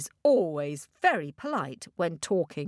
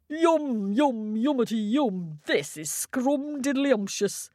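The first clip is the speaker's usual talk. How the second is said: high, slurpy, delighted frog; greedy frog voice; 3 semitones higher than usual. Acted. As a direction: savour every word like a greedy frog. Frog slurping ice cream.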